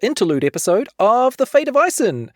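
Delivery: bright announcer welcome; podcast host intro. Acted. Host welcoming listeners to the special episode, upbeat.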